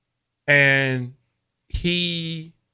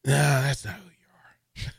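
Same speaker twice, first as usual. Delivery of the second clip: imitating a colleague. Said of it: "in his Sipple way".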